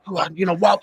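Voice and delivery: mock bewildered actor; doubtful actor voice. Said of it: "he's like".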